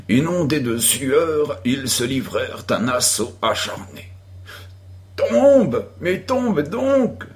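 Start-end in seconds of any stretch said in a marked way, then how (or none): 5.2-7.2 high, loud, drawn-out demand to fall; impatient shout. A narrator's reading. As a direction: yell at him to go down already. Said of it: "s'écria Tom au bout d'un moment".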